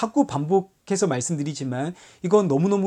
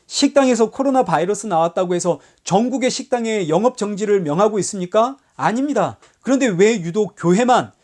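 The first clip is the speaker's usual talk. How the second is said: mock indignant protest; 3 semitones higher than usual. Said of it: "아니면 목소리를 높입니까?".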